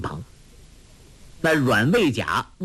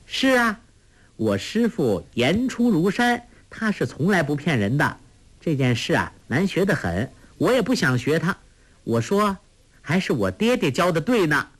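laughing; 5 semitones higher than usual. Acted. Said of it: "黄蓉笑道".

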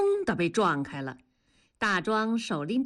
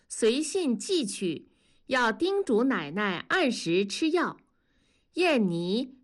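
higher, measured recitation; reading a letter aloud; 3 semitones higher than usual. Acted. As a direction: read the family's letter out carefully. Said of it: "信是男方在读". (朗读家信)

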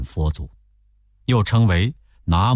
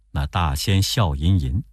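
ordinary delivery

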